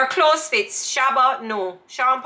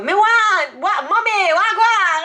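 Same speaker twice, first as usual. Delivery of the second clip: put-on higher, louder small-child voice; higher child voice attempting Jamaican patois; little girl speaking patois; 7 semitones higher, 4 dB louder, slower than usual. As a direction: play a little foreign girl trying patois. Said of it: "little white girl with her blonde hair".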